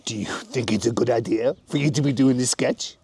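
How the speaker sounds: put-on French accent. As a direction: speak like a comic Frenchman. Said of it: "French accent".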